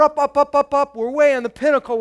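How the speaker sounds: excited climb up the hill; climbing excitement. Acted. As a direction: pitch and volume rising with each up. Climbing the roller coaster image.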